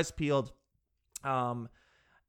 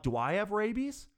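panicked question; 6 semitones higher than usual. Retold or imitated. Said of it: "I'm like".

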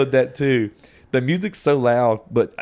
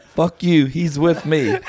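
higher, louder mock confrontation; retold defiance; 5 semitones higher, 3 dB louder, slower than usual. Telling off a stranger for his friend, mock defiant. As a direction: stand up for your friend, half laughing.

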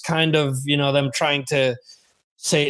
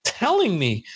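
incredulous; 7 semitones higher than usual. Retold or imitated. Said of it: "I'm like".

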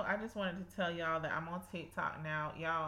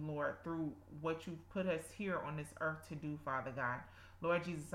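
earnest spoken prayer. Acted. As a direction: pray aloud with devotion. Leads a prayer.

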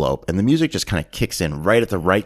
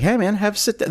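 imitating a pimp's welcome; 13 semitones higher, faster than usual. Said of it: "And he's like".

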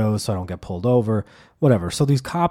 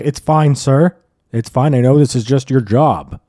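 louder, patronising reassurance; mock reassurance; 2 semitones higher, 8 dB louder than usual. Driver reassuring the cop, mock patronising. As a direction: pat the cop on the head.

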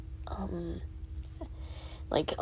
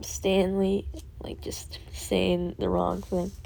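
whisper; 8 dB quieter, much slower than usual. Real, not acted. Confessing fear about teacher.

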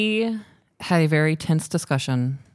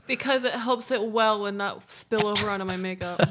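tearful, higher and much softer; trying not to cry; teary voice, much higher and softer; fighting back tears; 5 semitones higher, 5 dB quieter than usual. Real, not acted. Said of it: "legit makes me wanna cry".

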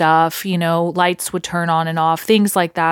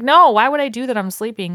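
indignant denial; 5 semitones higher than usual. Retold or imitated. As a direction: act wrongly accused as a kid. Kid denying to mom.

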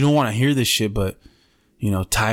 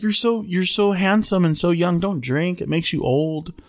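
higher-pitched motherly flattery; lightly voiced fussing admirer, pitched up; imitated doting woman; 6 semitones higher than usual. Acting Susan flattering and advising him.

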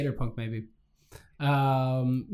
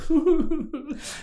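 laugh-sob; 13 semitones higher than usual. Retold or imitated. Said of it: "I start crying".

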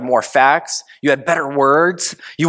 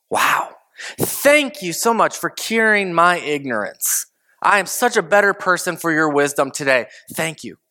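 sarcastic thanks. Retold or imitated. Sarcastic thanks to the other arguer.

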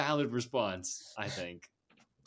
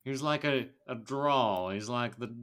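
Southern accent attempt. Shown as a demonstration. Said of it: "try and do the accent".

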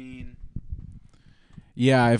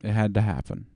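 Obama voice. Retold or imitated. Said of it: "Do Obama voice for this one".

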